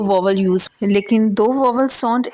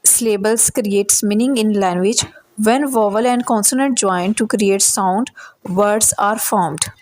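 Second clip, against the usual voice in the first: slow definition reading; much slower than usual. Acted. Teacher reading the English definition to students, slow and deliberate. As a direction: read each English word slowly and evenly.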